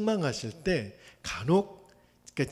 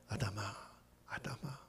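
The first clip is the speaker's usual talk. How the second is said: calling Adam, softer, fading to a whisper; 6 semitones lower, 16 dB quieter than usual. Acted. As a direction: call gently, the second time only breathed. God calls hiding Adam. (하나님이 숨은 아담을 조용히 부르다가 속삭이듯)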